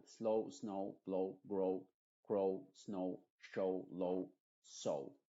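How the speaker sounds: quick recap of the word list; English long o. Shown as a demonstration. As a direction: rattle through the list. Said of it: "el nombre de la O es O".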